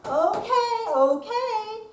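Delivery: high, loud exasperated okays. Acted. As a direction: give in with a loud huff. Reluctant giving in.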